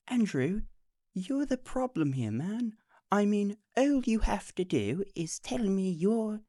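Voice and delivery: a light mock of a patient saint; imitating Nathan. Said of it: "He's like".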